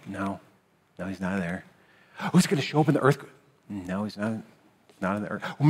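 quiet, soft preaching with pauses; softly preaching, letting each no land; hushed sermon build. Acted. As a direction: draw them in softly, one question at a time. Preacher building a slow, hushed climax.

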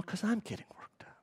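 real hushed whisper to cool down; self-calming whisper mid-sermon. Real, not acted. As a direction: drop to a whisper to calm himself. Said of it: "Let me calm down".

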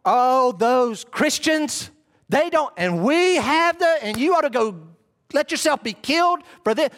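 lightly voiced rival preacher scorning Christians; hint of a scornful cleric; mock foreign preacher. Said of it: "they're telling their people".

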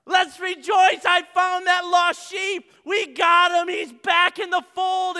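loud, high, joyful calling; yells to everybody. Retold or imitated. Shepherd yelling to neighbours to come rejoice, loudly. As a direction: call the whole town over. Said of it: "yells to everybody".

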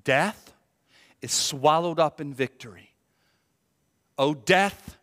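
lightly taunting, rising on death; mocking. Apostle Paul mocking death as beaten, tauntingly. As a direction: toss out a mild taunt at death. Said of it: "in a mocking way".

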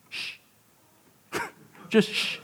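unvoiced playful shush; hushing. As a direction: shush him like a teacher.

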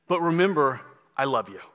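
low, tender "I love you" to finish; emphasis on the love. Shown as a demonstration. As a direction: end on a reassuring "I love you", pitch dropping. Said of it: "the emphasis goes on the love".

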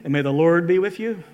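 measured, chant-like church intonation; Episcopal liturgical blessing. Retold or imitated. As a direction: intone it like a priest at the altar. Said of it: "Saul gets all Episcopal on him".

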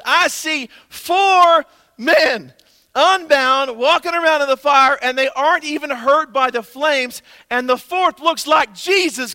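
loud, high and very slow amazed shout; king shouting. Acted. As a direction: call out each word in awe like a stunned king. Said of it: "Nebuchadnezzar shouted".

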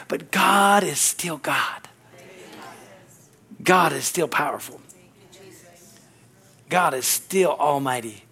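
slow, hushed reverence; hushed declaration. Real, not acted. Preacher reassuring congregation of God's power, hushed and solemn. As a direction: drop to a slow, solemn hush.

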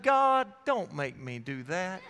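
mock begging to be let off; reluctant plea. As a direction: plead upward, then sink in reluctance. Retells begging God to excuse him.

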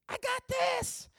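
put-on George Lopez accent. Youth speaker doing a Mexican-American accent for the show's catchphrase. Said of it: "I'm gonna try to do his accent".

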